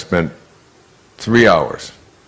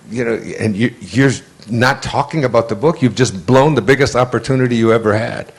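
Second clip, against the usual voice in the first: mild mock anger, higher pitched; angry agent; 4 semitones higher than usual. Agent scolding the author for blowing the meeting, mildly angry. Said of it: "He was so angry at me".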